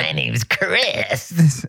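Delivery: slow, mocking gremlin imitation. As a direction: drag it out like a goblin. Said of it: "Answer the riddle under the bridge".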